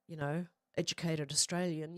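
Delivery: measured educated Australian accent. Shown as a demonstration. Streamer explaining bogan to viewers, educated Australian accent. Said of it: "Did you see the change in accent slightly?".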